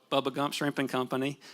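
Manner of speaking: put-on a touch of Southern country accent. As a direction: say the name like a Southern country boy. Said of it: "why do I do this with a country accent".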